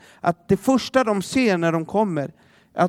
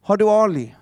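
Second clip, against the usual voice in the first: mock frantic calling; 2 semitones higher than usual. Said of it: "ropar de till barnen".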